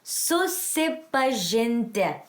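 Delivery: Susipažinti very slowly, stretched syllable by syllable; accented Susipažinti. Shown as a demonstration. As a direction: model Susipažinti for a learner, drawn out and falling at the end. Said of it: "the accent is right there".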